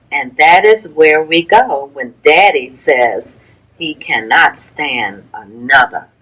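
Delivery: lilting storybook read-aloud with a rhyming bounce; gentle sing-song picture-book narration; reading to children. Acted. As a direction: read it to a class of little kids, bringing out the rhymes. Teacher reads picture book aloud.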